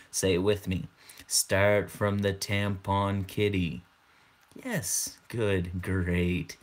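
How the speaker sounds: playful fake hypnosis voice; mock hypnotist. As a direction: lull them in like a stage hypnotist, half joking. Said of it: "let's get into character".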